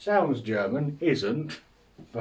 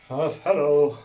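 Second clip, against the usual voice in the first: awkward chirpy greeting; 4 semitones higher, 7 dB louder than usual. Retold or imitated. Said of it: "They're like".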